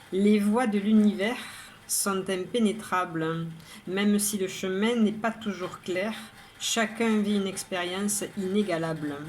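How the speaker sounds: measured poem reading, pauses between lines; poem recitation. Acted. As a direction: recite each verse evenly, pausing after the rhyme. Recites her own poem. (lecture de poème, posée, vers par vers)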